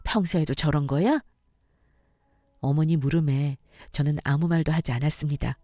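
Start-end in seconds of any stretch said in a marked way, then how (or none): 0.0-1.2 gentle mother-in-law checking on a crying daughter-in-law; calm, subdued concern; soothing. Acted. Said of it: "저를 진정시켜 주셨습니다".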